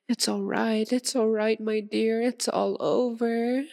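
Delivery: lifted, doting reassurance; cooing reassurance. Acted. Vampire reassures her captive the bite is over, cooing. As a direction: soothe a hurt pet. Soothing the captive after feeding.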